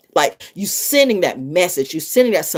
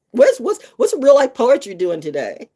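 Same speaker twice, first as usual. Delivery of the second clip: excited; 5 semitones higher than usual. Real, not acted. Calling out to a streamer.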